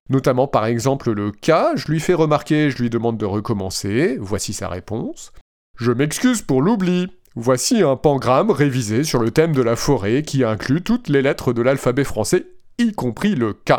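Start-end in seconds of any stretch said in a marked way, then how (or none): 5.8-13.7 flat, even machine voice; robot voice. Retold or imitated. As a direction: read it like a chatbot. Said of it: "avec ma belle voix de robot".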